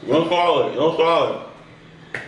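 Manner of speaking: muffled warning through a full mouth. Real, not acted. Challenger warns partner not to swallow, mouth full.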